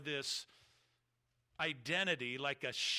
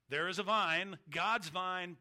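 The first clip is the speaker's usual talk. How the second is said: raised emphasis; 4 semitones higher, 6 dB louder, slower than usual. Real, not acted. Preacher contrasting shadow and substance.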